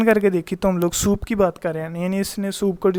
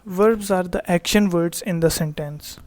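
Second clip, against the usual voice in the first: slow definition read; much slower than usual. Shown as a demonstration. Teacher reads definition slowly.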